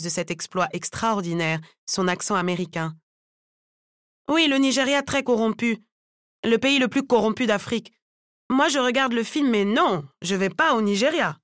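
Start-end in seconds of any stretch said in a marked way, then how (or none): 4.3-11.4 opinionated Mariama. Acted. Mariama condemns Nigeria in broken French.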